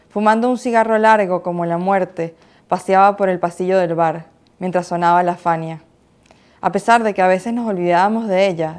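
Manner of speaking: brisk, measured poem recital in Spanish; poetry reading. Acted. Poet reading her own poem aloud, poetry recital. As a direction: recite with emphatic lift, settling at each line's end.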